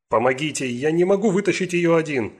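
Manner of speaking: strained, breathless plea for help; urgent panting report. Acted. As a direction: gasp it out under strain. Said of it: "Голос его был сдавленным, он задыхался".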